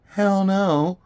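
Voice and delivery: high, loud mock outrage; sharp retold no-way; flat refusal. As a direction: blurt it like a retold gut reaction. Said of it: "my first thought was".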